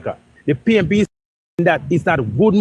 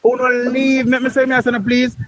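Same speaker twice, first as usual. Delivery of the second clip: rising plea to be heard; 5 semitones higher than usual. Real, not acted. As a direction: pitch up, pleading over the interruptions. Pleading to be let speak.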